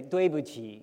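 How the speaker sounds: 对不起 said carefully as duì bu qǐ, falling then rising tone; Chinese phrase. Shown as a demonstration. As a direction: model 对不起 clearly for the kids to repeat. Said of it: "You say".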